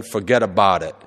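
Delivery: "forget about it" run together as one Brooklyn word; Brooklyn fuhgeddaboudit. Retold or imitated. Reading the Brooklyn sign in a Brooklyn accent. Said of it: "And it's all one word".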